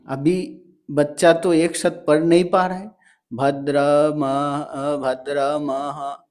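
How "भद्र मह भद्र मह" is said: halting, stretched-out stumbling over the word; child struggling to read. Retold or imitated. A child stuck on a hard word while reading aloud, slow halting. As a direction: sound out भद्र मह slowly, like a stuck child. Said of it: "तो ऐसे कर रहा है".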